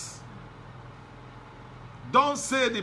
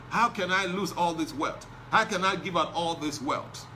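mock lament. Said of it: "he left sorrowfully".

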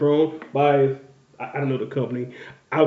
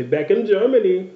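put-on higher, teasing German accent; playful imitation of a German accent; imitated German accent; 4 semitones higher than usual. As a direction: mimic a slight German accent with a laugh. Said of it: "like, a little accent".

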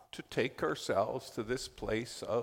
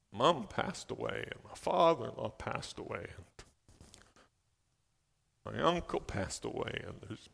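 lightly voiced weary confession to the Lord; humble prayer; 3 semitones lower than usual. Shown as a demonstration. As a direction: model an honest, tired prayer. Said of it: "We need to learn to pray".

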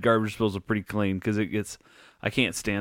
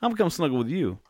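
dog's inner voice; 2 semitones higher than usual. Retold or imitated. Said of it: "The dog decides".

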